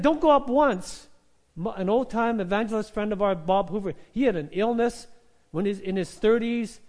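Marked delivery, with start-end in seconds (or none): 0.0-1.1 louder and slower, pressing each word; emphatic urging. Retold or imitated. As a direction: urge them hard to go up. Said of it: "I said".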